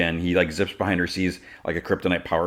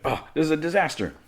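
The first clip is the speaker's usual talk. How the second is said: high-pitched exasperated lament; mock despair; 11 semitones higher than usual. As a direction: wail it lightly in hammed-up dismay. Jealous man despairs at the news.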